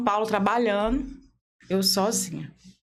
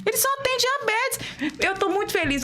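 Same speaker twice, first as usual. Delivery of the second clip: put-on child's voice; 11 semitones higher than usual. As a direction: say it like a small daughter shrugging it off. Daughter line repeated, pitched up.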